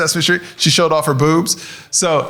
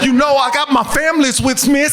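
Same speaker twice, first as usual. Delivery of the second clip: white woman act; 6 semitones higher than usual. Acted. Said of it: "Talk about a white woman".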